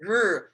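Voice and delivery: r held as a buzzing sound, tongue suspended behind the teeth; Chinese r sound. Shown as a demonstration. Teacher demonstrating the Chinese word for sun. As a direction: sound out the r slowly for the class. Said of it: "I don't know how to explain that other than to say".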